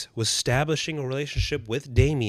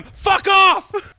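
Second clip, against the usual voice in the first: high, loud laughing yell; real laughing shout; 6 dB louder than usual. Real, not acted. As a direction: tell him off, laughing. Yelling at the screen.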